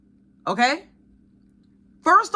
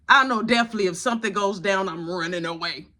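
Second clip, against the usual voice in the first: quick resolve; 4 semitones lower, faster than usual. Retold or imitated. Quick first resolve, then repeated slowly.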